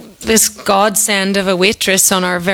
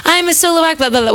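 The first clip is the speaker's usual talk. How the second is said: mock dismissive; 8 semitones higher, faster than usual. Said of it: "we were going".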